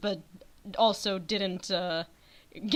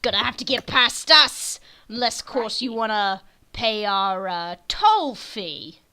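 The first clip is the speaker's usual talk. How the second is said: brigand demanding toll. Acted. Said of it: "the wyvern guy goes".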